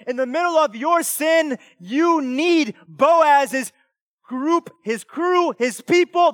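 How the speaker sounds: loud, high-pitched, forceful sermon delivery; preaching. Real, not acted. Preacher urging the congregation to lean on church people, impassioned preaching. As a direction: preach it hard, stretching the key words.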